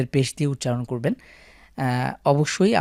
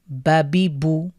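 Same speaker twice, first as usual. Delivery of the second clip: whispered; much slower than usual. Shown as a demonstration. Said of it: "repeated drill, whispered take".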